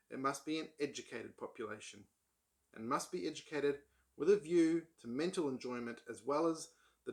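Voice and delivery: measured book reading; reading aloud. Acted. Reading an essay passage to viewers, measured read-aloud. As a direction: read the essay out in careful phrases.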